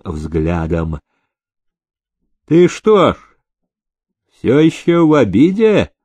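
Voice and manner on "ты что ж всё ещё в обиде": a barely audible sneer in the question; faint mockery. Master lightly mocking the sulking groom. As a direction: tease him lightly, almost hiding it. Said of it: "с еле уловимой насмешкой".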